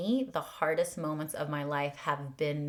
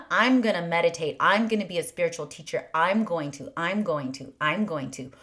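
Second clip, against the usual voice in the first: mock eager striving; 5 dB louder, faster than usual. Mocking ego's striving.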